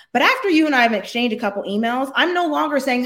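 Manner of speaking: ordinary delivery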